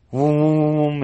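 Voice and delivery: long drawn-out droning "voom"; sustained vocal whoosh of take-off; imitated whoosh. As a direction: hum out a tornado lifting off. Imitates the tornado taking off.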